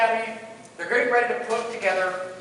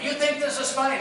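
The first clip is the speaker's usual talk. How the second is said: imitated yelling; 6 semitones higher than usual. Drill instructor challenging an amused cadet, mock yell. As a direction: scold like a drill instructor at half volume. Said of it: "he starts yelling at me".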